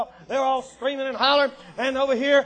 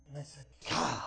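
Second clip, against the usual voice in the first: hushed aside; 9 semitones lower, 10 dB quieter than usual. A narrator's reading. Hushed drop after shouting.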